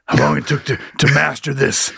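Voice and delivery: imitating juggler. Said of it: "he says it like that".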